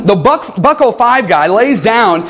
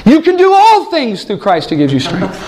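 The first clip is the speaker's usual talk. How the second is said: laughing quote; 3 semitones higher than usual. Retold or imitated. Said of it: "And then he said".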